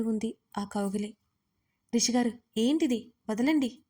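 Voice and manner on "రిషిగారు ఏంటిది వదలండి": raised, insistent protest; firmly. Acted. Yajna pulling free of Rishi's hug, firm and raised. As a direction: push him off with your voice. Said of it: "గట్టిగా చెప్పింది".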